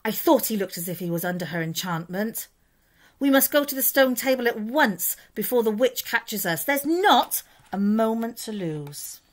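friendly storybook beaver sharing urgent news; lightly voiced Mister Beaver. Beaver urges haste.

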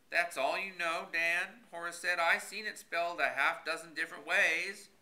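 a hint of a stubborn country fellow; folksy old Horace voice. A narrator's reading. Horace's voice in dialogue.

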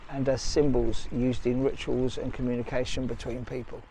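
measured documentary-style read; voice-over narration. Acted. Vlogger explaining ancient carvings to viewers, measured narration. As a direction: read it out like a guide's commentary. Reads out a description of ancient figures.

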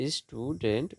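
"স্টুডেন্ট" as two beats, স্টু, ডেন্ট; split into syllables. Shown as a demonstration. Teacher dividing syllables for students, "স্টুডেন্ট" split in two. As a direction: separate the halves of "স্টুডেন্ট". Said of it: "syllable বিভাজন".

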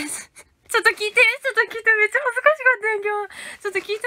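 high, loud laughing plea to listen; laughing eagerly. Real, not acted. Telling viewers an embarrassing story, high laughing plea. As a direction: giggle while begging them to listen.

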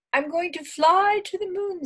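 high, loud proud announcement; storybook Little Bear, excited; excited cub. A narrator's reading. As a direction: declare the big adventure in a high child-like voice. Little Bear declares he will fly.

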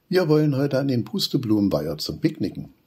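bubbling over about the picnic; excited. Acted. Wudi telling Papa about the picnic, excited and high. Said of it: "ist schon ganz aufgeregt".

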